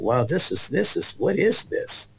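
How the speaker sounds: high, slow astonished what is this; boy marvelling at the healing meeting; amazed wonder. Retold or imitated. A boy in the balcony, hushed and amazed. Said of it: "I thought".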